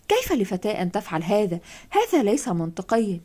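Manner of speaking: put-on indignant, jumping up to defend her child; angry mother. Mother standing up to the detective, angrily protesting. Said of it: "أمي وهي تقف بعصبية".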